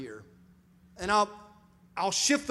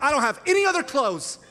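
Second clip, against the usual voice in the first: overdramatic whine; 9 semitones higher, 5 dB louder than usual. Retold or imitated. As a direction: ham up the wounded husband, laughing. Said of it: "We over-exaggerate everything".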